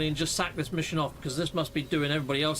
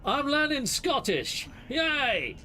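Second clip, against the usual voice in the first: excited; 10 semitones higher, much slower than usual. Acted. Cheering his own accent.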